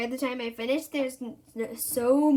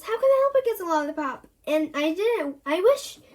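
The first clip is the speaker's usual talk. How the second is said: whiny complaint; 4 semitones higher, 4 dB louder than usual. Acted. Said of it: "says Alice".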